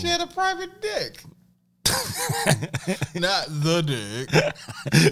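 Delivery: slow dramatic trailer voice; lightly voiced movie trailer announcer. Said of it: "you put your movie announcer voice".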